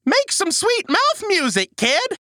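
high, excited urging; hyped encouragement. Acted. Host coaxes co-host into scatting, excited. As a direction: egg on a nervous beginner.

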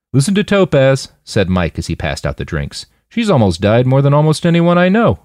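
amused, teasing; Mike voice. Acted. Mike's voice.

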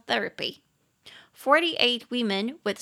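轻声耳语念出这句; 气声悄悄读; whispered reading. Shown as a demonstration. Unvoiced reading. (老师用气声轻读句子)

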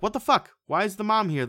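loud, high exasperated disbelief; baffled outburst. Acted. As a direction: burst out in mock outrage. Acting out the viewer's baffled reaction.

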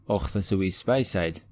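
Scottish, throaty "och"; Scottish accent. Acted. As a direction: put on a Scottish accent, saying Speyside as "spy-side". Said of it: "That sounds a bit more Scottish".

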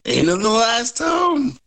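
high-pitched questioning echo; intrigued surprise. Acted. Mercenary hears guard's tip about women, intrigued surprise. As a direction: repeat it as an intrigued, rising question.

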